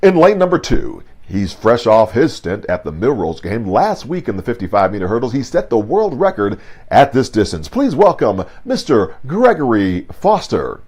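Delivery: lightly voiced track announcer, swelling at the end; stadium announcer. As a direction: hype the crowd like a meet announcer. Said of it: "that announcer's voice".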